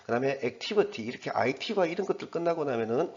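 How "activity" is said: "activity" stressed on "tiv"; stress before "-ity". Shown as a demonstration. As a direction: hit "tiv" in "activity", just before the ending. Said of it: "바로 앞에 강세가 떨어지거든요".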